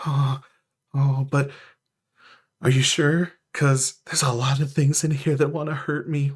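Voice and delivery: mildly nervous, hesitant creature; a touch of timid worry; timid celestial. Acted. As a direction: shrink back, unsure, with halting starts. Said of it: "shrinks back behind the stalactite a little".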